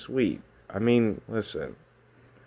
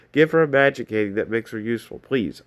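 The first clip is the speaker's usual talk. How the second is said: begging. Pretend. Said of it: "I'm begging".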